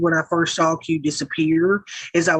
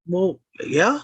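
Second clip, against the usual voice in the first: normal talking voice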